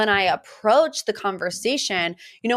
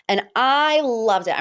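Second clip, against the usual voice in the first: excited; 3 semitones higher, slower than usual. Shown as a demonstration. Podcaster gushing over Dorit's entrance, excited. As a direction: gush over it like a fan.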